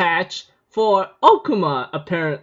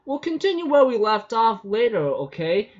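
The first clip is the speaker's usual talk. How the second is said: creepy yandere; 4 semitones higher than usual. Retold or imitated. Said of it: "she goes like".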